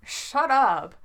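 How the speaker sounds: loud, high, annoyed snap; growled retort. A narrator's reading. Jensen flinging the script away, growled retort. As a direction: cut him off loudly, pitch jumping up. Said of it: "Jensen growls and flings the script away".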